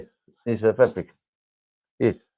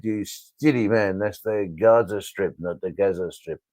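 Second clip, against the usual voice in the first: slow quoted official; 3 semitones lower than usual. Retold or imitated. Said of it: "and they said".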